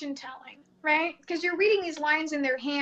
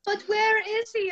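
higher, slow mock pleading; insistent client; 6 semitones higher, slower than usual. Client will not drop the husband question, mock insistent. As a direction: drag out the repeated question, imitating a pest. Mimicking client who keeps asking.

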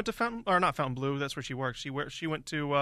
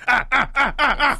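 Gordon Ramsay mock shout; 7 semitones higher, 7 dB louder than usual. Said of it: "This is what Gordon Ramsay would do".

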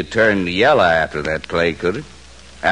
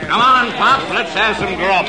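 calling out; 12 semitones higher than usual. Acted. Bully calls across the diner.

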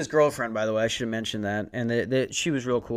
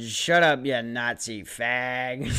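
mock retort; much slower than usual. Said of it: "I would have said".

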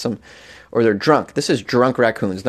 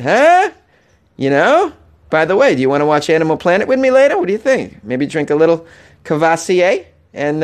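high, smarmy coaxing voice, much higher; sleazy boyfriend; 4 semitones higher than usual. Pretend. Boyfriend urging girlfriend to keep an open mind, high smarmy coaxing. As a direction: coax her like a creepy salesman. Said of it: "He's like".

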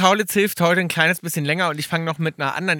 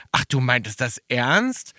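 slow, understated disbelief with a questioning lift; lightly acted dismay; mock appalled; 4 semitones lower, slower than usual. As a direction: retell his appalled question, drawn out slowly. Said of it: "sagte ganz entsetzt".

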